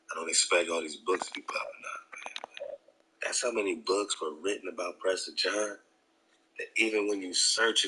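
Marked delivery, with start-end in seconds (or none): 0.1-2.4 fast, hushed whisper; a quick whispered aside. Real, not acted. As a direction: breathe it out fast under your breath.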